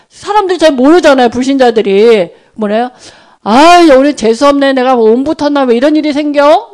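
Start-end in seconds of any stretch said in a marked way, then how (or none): 3.4-6.7 annoyed grumble. Retold or imitated. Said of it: "막 이러잖아".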